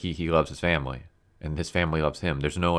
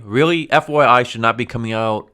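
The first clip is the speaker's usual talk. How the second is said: incredulous; 5 semitones higher, 8 dB louder than usual. Real, not acted. Ranting about Jor-El dialogue.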